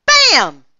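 loud, high exclaimed impact; explosive shout; sudden crash. A narrator's reading. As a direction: burst out with the sound of a crash. Story crash sound acted out.

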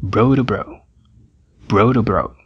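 to dito "do", bro do bro; T de to como R. Shown as a demonstration. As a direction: ligue o to com R batido. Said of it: "pronunciado como r". (o T de to soa como R)

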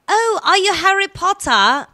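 high, loud, slow starstruck fan; mock excited fan. British guest mimicking fans asking about Harry Potter, gushing. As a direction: gush like a fan meeting a wizard. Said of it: "people come up to me".

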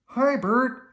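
high, loud calling; bright high call from afar; Big Bird. A narrator's reading. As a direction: hail a friend in a big-bird puppet voice. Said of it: "Big Bird called from his nest".

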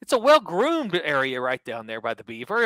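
high, sweet mock presenter voice; mock TV host. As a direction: play a prim host asking cheeky questions. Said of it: "she's so".

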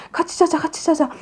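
put-on high, soft, whispery murmur to a baby; hushed coaxing. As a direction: act out a mother softly settling down beside her baby. 엄마가 자는 아기에게 속삭임.

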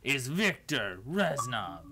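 slow, hammed-up Russian accent announcing the name; mock Russian accent. Friend acting out the drunk Reznov introducing himself, slow mock Russian accent. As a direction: lean on a cartoon Russian accent, slowly. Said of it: "Can you not hear my Russian accent?".

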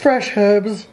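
"herbs" British-style, H pronounced; English accent. Acted. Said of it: "English accents on".

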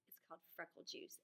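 whispered, like sharing a secret. Acted. Teacher telling the class the secret name, whispered. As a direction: breathe the name of the secret recipe. Sharon's secret recipe told.

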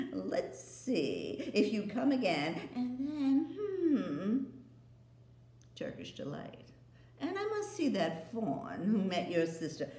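teasing queen, dangling a treat; sly temptress witch. Acted. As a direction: witch luring boy with sweets. Queen voiced.

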